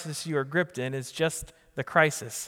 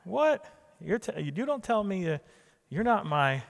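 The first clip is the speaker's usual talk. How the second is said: a squeaky, huffy comeback; mock outrage; 5 semitones higher than usual. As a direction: pitch jumps way up on what, then an indignant huff. Acting his own outraged reply.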